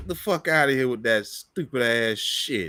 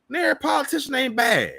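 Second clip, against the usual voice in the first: fast, high, shouted rebuke; heated shout; 9 semitones higher, faster than usual. Real, not acted. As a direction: yell it out in frustration. Ranting at a conspiracy video.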